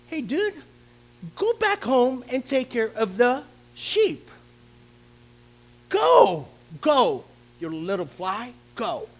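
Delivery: put-on dismissive older brother shooing him off; mild mock rebuke. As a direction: wave the kid away. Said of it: "his brothers rebuked him".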